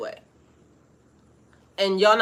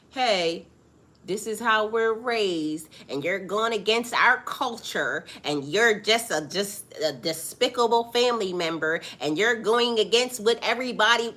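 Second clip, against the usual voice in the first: lecturing parents. Retold or imitated. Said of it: "your parents start to tell you".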